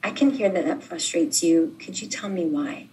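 softly calm, easing toward a hush; mild, understated reassurance; gentle. Shown as a demonstration. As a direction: speak it gently, like calming a frustrated partner. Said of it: "you can just gently say".

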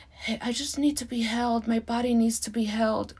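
a hint of a small child; little kid voice. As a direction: play a toddler asking a friend, lightly. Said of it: "visualizing a three-year-old ... telling her little bestie".

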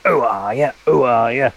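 lightly voiced Cockney bird call; bird imitation. Walker copying a whistling bird for listeners, light Cockney call. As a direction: mimic the bird's Cockney whistle. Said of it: "it sounds like someone going".

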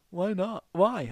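high-pitched imitation of an indignant demand; mock indignant yell. Imitating the group member demanding a reason, mock indignant yell. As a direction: imitate his outburst, pitch jumping up. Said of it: "you shouted at me".

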